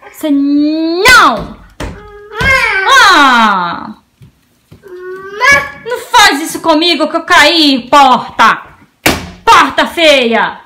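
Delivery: hammed-up childish wail; mock hurt child. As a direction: whine at the door that hurt you. Playing hurt child blaming the door.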